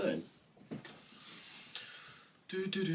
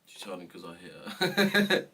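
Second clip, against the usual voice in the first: mocking mum; 5 semitones lower than usual. Repeats mum's words mockingly.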